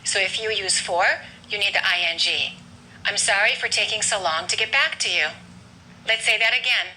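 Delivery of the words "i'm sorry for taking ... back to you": "back" stressed, "to" and "you" reduced; teacher's model sentence with the main beat on "back". Shown as a demonstration. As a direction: lean on "back", then go light on "to you". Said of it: "we're gonna stress the word back".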